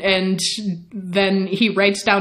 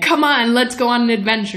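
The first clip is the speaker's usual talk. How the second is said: higher, pushy acted urging; eager coaxing; 4 semitones higher, faster than usual. Lestat urges Louis off on an adventure, eager mock coaxing. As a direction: coax them along like an eager playmate.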